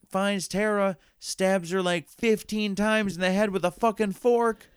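high, loud rush of outrage; retelling the brutal scene, worked up; excited telling. Real, not acted. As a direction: tell it up high and hot.

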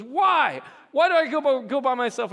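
put-on high child voice. Daughter protesting bathroom plan.

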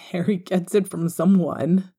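hushed whisper; murmured. Acted. Father whispering to his wife while spying on their son. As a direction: breathe it out so nobody hears. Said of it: "James murmured".

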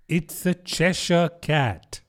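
put-on slow, withering old duchess; drawn-out, scornful duchess voice; frail withering duchess.

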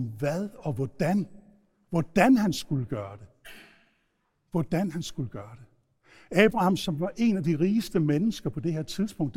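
ordinary talk, nothing marked

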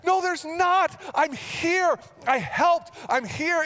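high, loud insistent shout; exasperated dad. Retold or imitated. Dad yelling at daughter that the bug is gone. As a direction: shout back over the screaming.

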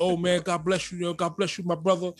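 mock churchy greeting. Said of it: "you know all the language".

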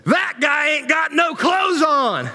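high, slow hollering redneck shout; redneck yell. Retold or imitated. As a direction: bellow it like a shocked redneck fan in the stands. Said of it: "this guy jumps up and goes".

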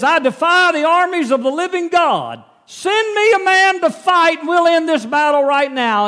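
loud, high booming challenge; Goliath's taunt. Acted. Giant shouting a challenge at the army, booming and high. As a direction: bellow the dare across the valley.

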